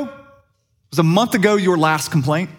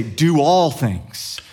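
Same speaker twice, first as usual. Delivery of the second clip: slow, each word weighed; slow emphatic legal wording; much slower than usual. Retold or imitated. Paul the lawyer dictating the rule, slow and deliberate. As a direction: spell it out like an ironclad clause. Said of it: "You gotta say".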